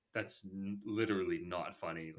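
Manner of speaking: deadpan, a little low; straight-faced. Retold or imitated. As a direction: retell it with an unimpressed straight face. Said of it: "staring at it straight-faced".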